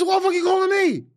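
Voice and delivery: put-on high, loud gruff old man voice; angry old man. The speaker mimics Dick Gregory calling back, high and loud. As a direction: bark it like a cranky old man.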